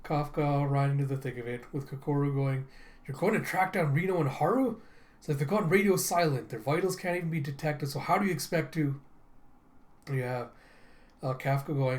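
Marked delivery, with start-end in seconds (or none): 3.0-9.0 higher-pitched acted incredulity; mildly exasperated character voice; incredulous objection. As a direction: question it in lively disbelief. Voicing Kokoro's incredulous objection.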